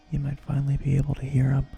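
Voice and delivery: loud and fast, gloating; triumphant outburst. Acted. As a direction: burst out with the reveal. Villain's triumphant reveal.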